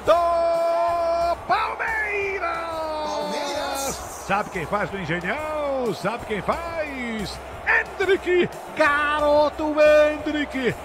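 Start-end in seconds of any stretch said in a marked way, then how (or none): 0.1-2.6 goal shout. Real, not acted. Goal cry after long held gol. 7.7-10.8 excited shout. Real, not acted. Naming the goal scorer.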